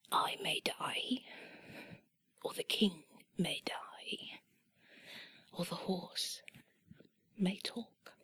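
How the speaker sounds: put-on slow whispered English-accented jester. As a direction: draw it out in a hushed English voice. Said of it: "I'll do it in the English voice".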